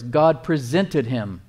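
slow, deliberate verse reading. Real, not acted. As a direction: linger on each word of the verse. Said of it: "We're gonna read it slowly".

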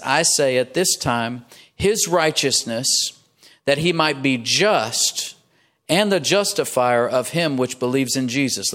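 very slow, deliberate scripture reading; weighty, unhurried reading aloud. Real, not acted. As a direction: draw out each phrase of the verse. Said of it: "I'm gonna read it slowly".

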